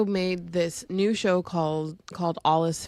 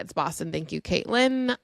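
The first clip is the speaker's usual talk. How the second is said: mock Boston accent, quieter; imitating a raspy Boston accent; 3 semitones lower, 4 dB quieter than usual. Imitating the makeup guru's Boston accent to a friend. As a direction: quote the influencer in her Boston accent. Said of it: "And she said it like that".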